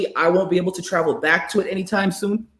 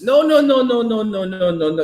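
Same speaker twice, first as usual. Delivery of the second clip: mock scolding; 3 semitones higher than usual. Scolding Josh who wants to flee. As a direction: shut him down firmly.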